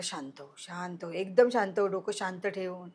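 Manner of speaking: gently calm a panicking friend. Retold or imitated. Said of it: "तो म्हणाला". (हळुवार समजूत)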